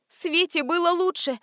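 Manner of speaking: high, timid babbling mother; a narrated mother's timid babble; babbling timidly. A narrator's reading. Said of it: "пролепетала мать".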